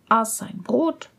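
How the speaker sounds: plain reading voice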